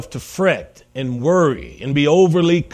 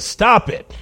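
higher-pitched mock shout to the wind; shouted command; 6 semitones higher than usual. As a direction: command it sharply, without full volume. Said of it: "he shouts to the wind".

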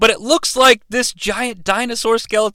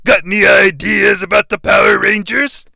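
henchman voice. Acted. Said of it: "Goldar and Mister Piggy are like".

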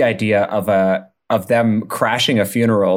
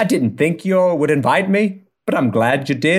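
bad English accent; 4 semitones higher than usual. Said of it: "I really just picked an accent I can't do".

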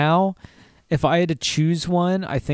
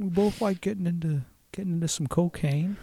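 high, hushed Owen Wilson; soft, laid-back and pitched up; imitating Owen Wilson; Owen Wilson impression; 4 semitones higher, 5 dB quieter than usual. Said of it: "Owen Wilson and Bill Clinton".

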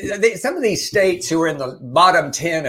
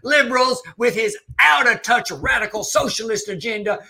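mock campaign speech; 5 semitones higher than usual. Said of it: "gets going by saying".

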